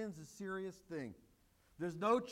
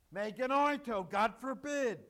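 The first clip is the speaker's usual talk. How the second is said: fist-pounding outburst, louder; emphatic exclamation; 3 semitones higher, 5 dB louder than usual. Acted. Preacher voices Paul's emphatic God forbid, louder. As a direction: hurl it out like a slammed fist. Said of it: "an absolute fist-pounding, exclamation point laden, emphatic".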